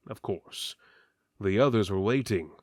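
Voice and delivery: usual speaking voice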